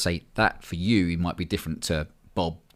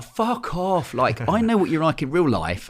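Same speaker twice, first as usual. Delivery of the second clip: mock snapping back; 3 semitones higher than usual. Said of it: "I'm like".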